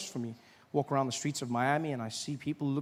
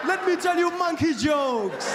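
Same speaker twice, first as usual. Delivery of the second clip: high, loud, drawn-out shout; caricatured tribal comedian; 10 semitones higher, 6 dB louder, slower than usual. Pretend. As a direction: holler it as a hammed-up stage entrance. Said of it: "a guy in leopard skin".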